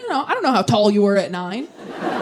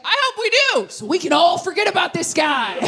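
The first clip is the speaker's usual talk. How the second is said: jealous dad jab; 6 semitones higher than usual. Retold or imitated. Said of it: "He's like".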